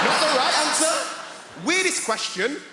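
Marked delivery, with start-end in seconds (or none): 0.1-0.9 loud punchline. Real, not acted.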